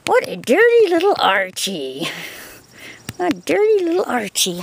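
high sing-song pet talk; squeaky praising a dog. Real, not acted.

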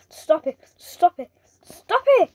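rising frustrated yell; building shout. Real, not acted. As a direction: raise it each time until you shout. Repeated shout at another player.

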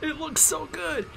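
high, slow, swooning gush; drawn-out delighted swoon; excited. Real, not acted. Gushing over the remake.

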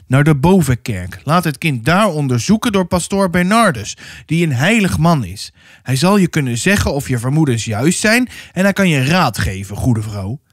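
lightly voiced, emphatic priest; stern pastor. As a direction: lay down the only remedy firmly. Pastor sends mother to higher authority. (strenge pastoor, nadrukkelijk)

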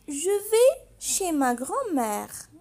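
put-on small, slow, tearful girl's voice; a scared little girl near tears; frightened girl. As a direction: answer the wolf with a catch in the voice. Frightened girl answers the wolf.

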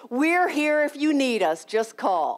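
lightly voiced kind neighbor; neighbor's kind offer. Neighbor Carol offering help on the phone, kindly. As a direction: offer help gently, almost sing-song. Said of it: "Hey, honey".

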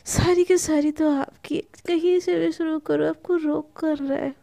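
playful, lightly flirty lilt; a touch of naughty coyness; naughty teasing. Acted. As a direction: tease them with mischief. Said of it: "naughty naughty वाली voice में".

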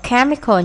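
"chemical" with the opening syllable emphasized; first-syllable stress. Shown as a demonstration. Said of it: "nhấn âm một".

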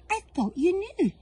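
lightly voiced goose. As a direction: tell it like obvious news. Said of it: "The goose replied".

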